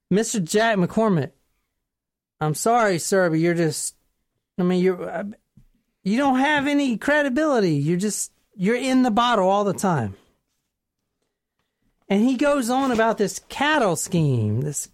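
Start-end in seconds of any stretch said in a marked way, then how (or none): 0.1-10.1 put-on halting, dismissive country accent. Police telling the tipster he's not credible, put-on country accent. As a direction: let him down in a country accent.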